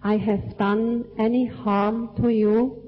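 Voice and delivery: slow, measured phrases for repeating; language lesson narrator. Real, not acted. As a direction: recite it line by line for the group to echo. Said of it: "say part of the sentence and you repeat after me".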